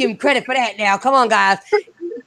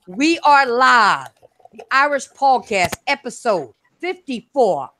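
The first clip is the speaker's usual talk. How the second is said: slow, stretched live announcement; show opener; slower than usual. Acted. Host opening the podcast to listeners, slow announcer call. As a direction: draw it out to open the show.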